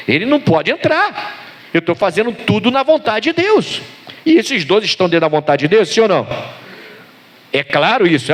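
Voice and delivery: high-pitched rhetorical sermon questions; impassioned preacher pressing the point; fervent preaching. Real, not acted. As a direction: argue it to the congregation with rising pitch. Preaches with rising fervour.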